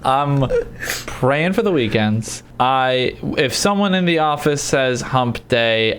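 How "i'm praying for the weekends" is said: laughing. Real, not acted. Laughing mock lament.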